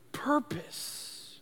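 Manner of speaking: breathy whispered final word. Real, not acted. Speaking of lost dreams, whispers the word. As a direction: let purpose fall to a whisper. Dramatic pause on life purpose.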